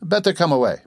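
high-pitched, mildly dismayed urging. A narrator's reading. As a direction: urge them away in dismay. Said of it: "the mother interposed in dismay".

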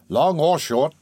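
mildly snappish retort; snappish matron. A narrator's reading. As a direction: cut in with a touch of irritation. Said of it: "said the matron snappishly".

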